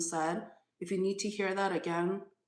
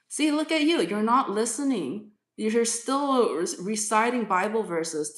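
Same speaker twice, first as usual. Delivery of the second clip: exasperated scolding; 3 semitones higher, 5 dB louder than usual. Real, not acted. Reader scolds a chatter.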